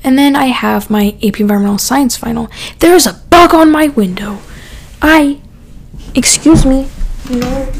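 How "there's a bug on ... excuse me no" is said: jolted by a bug, words jump up; startled. Real, not acted. Talking to viewers, spots a bug on her window, startled.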